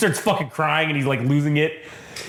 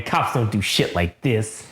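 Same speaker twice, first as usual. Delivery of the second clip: gruff hero; 4 semitones lower, slower than usual. Acted. Cole's grim reply.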